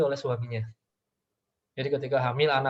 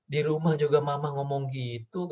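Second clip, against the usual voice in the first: lightly voiced cheeky child; a child's innocent retort; child answering back. Son telling his mother she talks that way too, innocent. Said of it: "katanya gitu".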